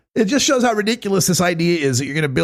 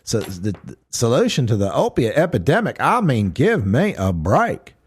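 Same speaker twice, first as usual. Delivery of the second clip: mock disgust. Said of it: "You gotta have that little disgust whenever you say marijuana".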